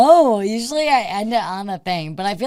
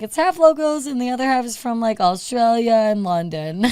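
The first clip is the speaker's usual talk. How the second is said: excited; 3 semitones higher, 4 dB louder than usual. Retold or imitated. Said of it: "I'm like".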